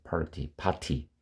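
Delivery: party with a clearly released T; British-style party. Shown as a demonstration. Teacher on how some in Britain say it, party with a hard T. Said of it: "영국에 아마 party라고 하는 사람들이".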